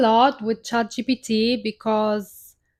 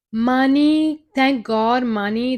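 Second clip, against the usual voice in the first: excited cheer; 3 semitones higher, 5 dB louder, slower than usual. Retold or imitated. Retelling the chatbot's reply, a mock-excited cheer. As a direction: cheer about money, then settle.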